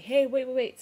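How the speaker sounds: high, loud urgent call; calling after. Retold or imitated. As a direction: imitate hailing someone driving off. Calls after departing friend's car.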